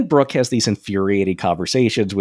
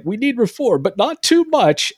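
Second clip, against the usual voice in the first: mocking Brooke; 3 dB louder than usual. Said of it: "So he'll do things like".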